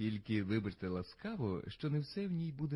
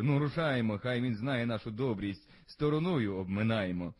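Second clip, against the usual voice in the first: a louder call to ride on; knight calling out; 5 dB louder than usual. Acted. Knight orders the hunt away from the poet, loud call. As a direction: knight calls his hunters to move on, loudly. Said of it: "крикнув лицар".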